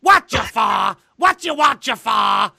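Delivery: loud parrot-style squawk; Iago. Retold or imitated. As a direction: bellow it as a cartoon parrot. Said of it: "Ia-, Iago".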